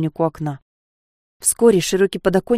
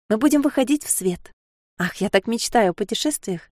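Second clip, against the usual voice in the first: Sofia, dreamy; 4 semitones higher than usual. Acted.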